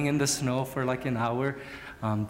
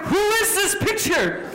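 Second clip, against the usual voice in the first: shocked disbelief; 7 dB louder than usual. Retold or imitated. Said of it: "And I was like".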